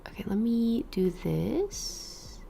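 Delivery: breathy off-mic whisper, slow; real whisper. Real, not acted. Streamer checking her setup, whispering to herself. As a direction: whisper it to yourself while fiddling with settings. Muttering while setting up recording.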